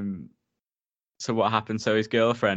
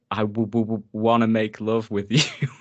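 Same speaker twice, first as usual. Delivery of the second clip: stammering nervous proposition; 3 dB louder than usual. Retold or imitated. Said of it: "he's like".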